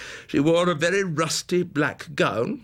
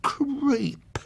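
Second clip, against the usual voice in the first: higher, very slow, whispery whine; slow, breathy, whining boy; fat boy's whine; 6 semitones higher, much slower than usual. Acted. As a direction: drag it out like a gloating lazy boy. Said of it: "The fat boy's whine".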